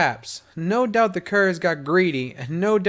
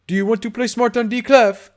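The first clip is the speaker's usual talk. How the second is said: angry; 7 semitones higher, 6 dB louder than usual. Acted. Gangster threatens.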